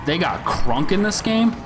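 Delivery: excited fan voice. Real, not acted. Delighted at a fan favourite.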